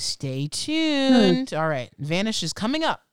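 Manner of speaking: upbeat radio DJ voice; radio announcer voice. Real, not acted. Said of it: "I sound like a radio person".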